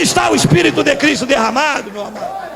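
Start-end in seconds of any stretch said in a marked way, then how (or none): none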